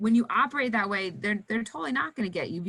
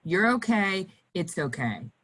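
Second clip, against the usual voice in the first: soothing reassurance. Shown as a demonstration. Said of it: "'Cause your voice is really".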